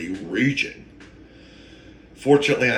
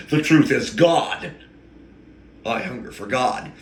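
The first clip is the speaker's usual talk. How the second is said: getting emotional. Real, not acted. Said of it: "I told you I was getting emotional".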